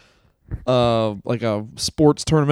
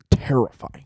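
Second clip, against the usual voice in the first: whispered; 4 semitones lower than usual. Real, not acted. Mock awe.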